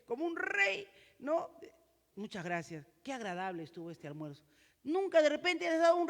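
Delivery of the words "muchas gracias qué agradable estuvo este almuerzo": grateful thanks. Shown as a demonstration. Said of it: "nunca estaba decir gracias".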